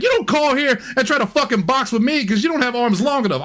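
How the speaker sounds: high, intense wrestling-promo rant. Retold or imitated. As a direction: cut a promo at him. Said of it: "I was cutting a wrestling promo".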